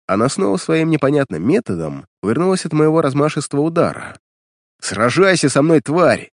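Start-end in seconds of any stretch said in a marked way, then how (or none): 4.8-6.3 angry battle cry, raised voice; furious shout. Acted. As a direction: challenge the monster in a rage. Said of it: "В бешенстве закричал я".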